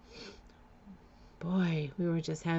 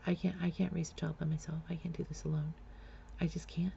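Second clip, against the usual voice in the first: retold breakdown; 7 dB quieter than usual. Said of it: "And I was like".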